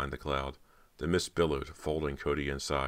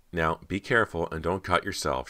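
condescending; 2 semitones higher, 3 dB louder than usual. Acted. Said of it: "as if talking to a three-year-old".

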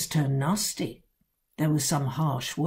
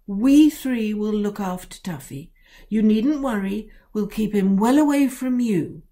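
put-on eager girl; 4 semitones higher, 5 dB louder than usual. A narrator's reading. Girl promises her father.

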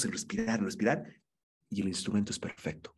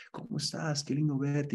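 glad greeting; 5 semitones higher than usual. Shown as a demonstration. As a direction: welcome him warmly again. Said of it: "de alegría".

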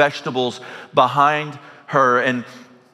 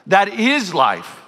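slow emphatic, higher; 8 semitones higher, slower than usual. Shown as a demonstration. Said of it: "emphatic repeat".

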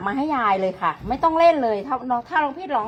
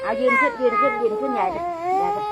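high coaxing; 10 semitones higher than usual. Real, not acted. Coaxing child to stand up.

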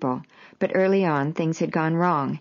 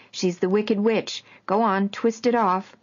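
playful urging; 4 semitones higher than usual. Retold or imitated. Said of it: "Woody would order Dylan".

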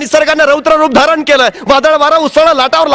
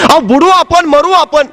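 a pitched-up, frightened cry of a wife in a storm; panicked wife. Acted. Wife begging her husband in the storm, frightened cry. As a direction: plead as the boat goes under.

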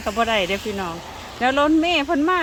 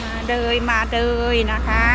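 louder call to come along; 6 dB louder than usual. Real, not acted. Calling child to come along.

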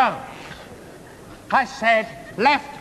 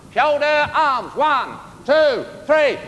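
barked drill command; 4 semitones higher, slower than usual. Shown as a demonstration. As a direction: call the count like a sergeant. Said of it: "I will demonstrate the shoulder arms".

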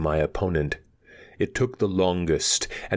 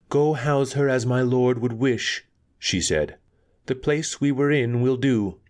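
stern woman voice; 6 semitones higher than usual. A narrator's reading. Anika gives orders.

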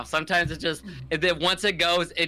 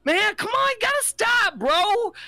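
much higher, pleading mock voice; high whiny plea; 3 dB louder, slower than usual. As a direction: whine it like a wounded buddy. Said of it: "He'd be like".

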